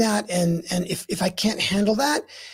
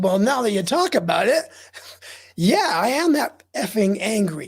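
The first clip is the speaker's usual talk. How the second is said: retold dawning realization; 3 semitones higher than usual. Acting own dawning agreement with anger.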